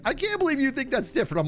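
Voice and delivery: imitating his daughter's high, teasing jab; mock daughter voice. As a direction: play the daughter calling his bluff in a high, loud voice. Daughter's teasing comeback retold.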